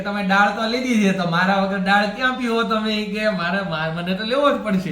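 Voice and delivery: a proud bowl of rice loudly insisting it be served; talking rice. Acted. Rice talks, personified food.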